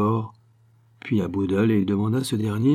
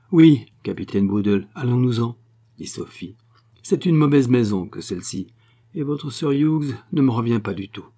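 louder, scornful schemer with an ominous prophecy; haughty Sophie; 2 semitones higher, 4 dB louder than usual. Acted. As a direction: sweep out with scorn. Sophie leaves, prophesying darkly. (Sophie hautaine et menaçante)

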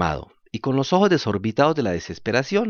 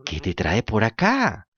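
dull echoing cat; slower than usual. Acted. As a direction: parrot the fox lazily as the cat. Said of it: "repitió el gato".

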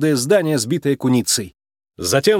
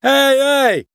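high, loud frantic call; panicked pig calling out; desperate cry; 12 semitones higher, 4 dB louder than usual. A narrator's reading. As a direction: shout for help in a panic. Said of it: "отчаянный крик".

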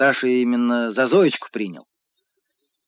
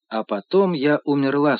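calm. Acted. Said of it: "спокойно ответила она".

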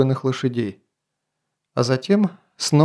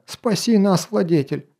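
yelling; 5 semitones higher than usual. Acted. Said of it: "продолжал орать слуга".

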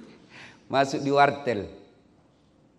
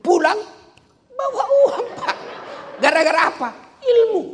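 high, loud crowd-rousing shout; full-force preaching; 10 dB louder than usual. Real, not acted. Preacher boasts to the crowd of his free trips, full-force preaching. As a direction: fire out short phrases with pauses, loud and high.

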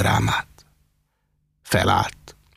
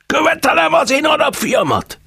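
higher, howled demand; howling; 4 dB louder than usual. A narrator's reading. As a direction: howl at Róza mama. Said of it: "üvöltötte". (üvöltve követel)

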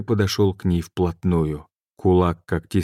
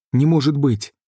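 sharply raised, stunned disbelief; a man reeling from bad news; shocked outcry; 7 semitones higher, 3 dB louder than usual. A narrator's reading. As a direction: blurt it out in shock.

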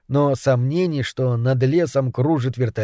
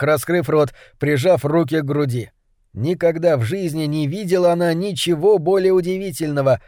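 plain reading voice

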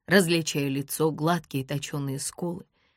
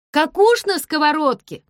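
higher, loud exclaiming shout; yelling; 11 semitones higher, 9 dB louder than usual. A narrator's reading. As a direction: fling it out. He yells the phrase.

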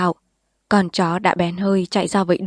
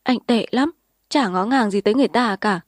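sobbing reproach; 3 semitones higher than usual. Acted. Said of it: "Sinh tấm tức".

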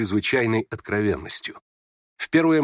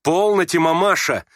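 raised, high appeal; urgent restraining cry; 7 semitones higher, 5 dB louder than usual. Acted. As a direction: call out to hold mother back. Varya urgently restrains her mother. (резкий окрик, удерживая мать)

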